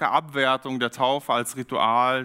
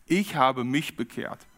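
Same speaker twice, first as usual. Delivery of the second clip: langsam, mit Gewicht auf "ich"; Betonung auf ICH; slower than usual. Shown as a demonstration. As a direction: betone "ich" und "mich". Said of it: "es geht sehr stark um dich". (Nachdruck auf "ich" und "mich")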